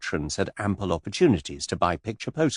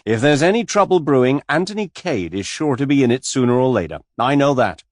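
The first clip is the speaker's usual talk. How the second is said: put-on louder, bluff old friend voice; hearty Jimmy; 6 semitones higher, 7 dB louder than usual. A narrator's reading. Old friend Jimmy teasing Anthony, loud and bluff. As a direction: boom it out like a rough old pal.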